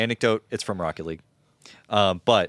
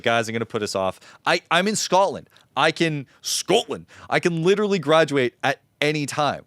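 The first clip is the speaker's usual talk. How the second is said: put-on higher, louder Scottish accent; broad Scottish accent; 4 semitones higher, 4 dB louder than usual. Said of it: "he has a heavy Scottish accent".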